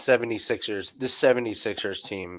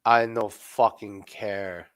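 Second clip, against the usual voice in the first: deadpan defiance; 3 semitones lower, slower than usual. Retold or imitated. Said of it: "you go".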